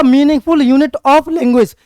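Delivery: each word slow and spaced; teacher dictating slowly; slow dictation. Shown as a demonstration. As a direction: dictate it so students can write. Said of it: "dictating definition".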